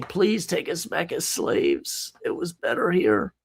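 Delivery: mock groveling. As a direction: imitate someone meekly begging to return. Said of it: "going back and groveling and saying".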